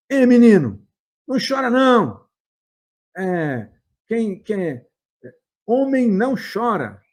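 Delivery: loud, high "Ei, menino" then a firm scolding; retold stern call-out. Stranger scolding the crying boy in a parking lot, loud and firm. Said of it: "Ele chegou e falou".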